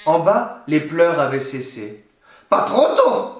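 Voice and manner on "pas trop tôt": much higher, grumpy crone snap; a grumpy hag relieved at last; grumbling witch. A narrator's reading. Witch in the attic as crying stops, grumpy crone voice. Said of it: "grogna la sorcière".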